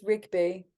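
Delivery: "Rigby" with a hard stop, like "Rick-bee"; correct name pronunciation. Shown as a demonstration. Guest correcting the host on her surname, "Rigby" with a hard stop. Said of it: "Do I pronounce that right?".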